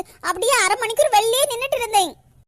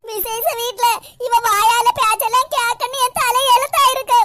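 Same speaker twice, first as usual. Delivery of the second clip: tearful; 3 dB louder than usual. Acted. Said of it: "அழாத கற்பகம்".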